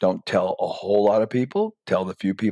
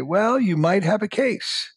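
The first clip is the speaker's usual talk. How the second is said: much higher, slow and drawn out; slow lawyer voice; 11 semitones higher, slower than usual. Pretend. Lawyer advising the inventor, high and slow. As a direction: play the cautious lawyer, slowly.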